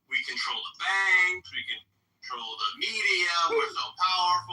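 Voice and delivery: slow, high, gleeful build; mock gloating. Joke character savouring what his magazine says, mock-gleeful boasting. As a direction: relish each item, drawn out and high.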